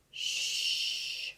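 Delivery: soft unvoiced hush; whisper. Wonka hushing Charlie and the others, whispered shh. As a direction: hush everyone, finger to lips. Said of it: "whispered Mister Wonka".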